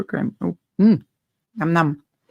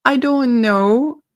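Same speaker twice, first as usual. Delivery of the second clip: laughing; 7 semitones higher, 4 dB louder, slower than usual. Real, not acted. Laughing reply.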